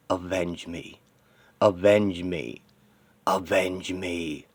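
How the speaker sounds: slow, drawn-out haunting plea; voices of the dead. Acted. The screaming dead begging the hero, haunting. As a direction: stretch each plea out, held back.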